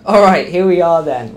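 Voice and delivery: echoing in an enclosed cabin; big hall echo. Real, not acted. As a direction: voice bouncing off hard walls. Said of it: "Oh, it's echoey in here".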